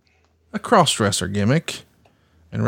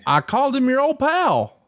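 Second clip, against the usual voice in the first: mean tone; 12 semitones higher than usual. Real, not acted. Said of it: "you did it in a mean way".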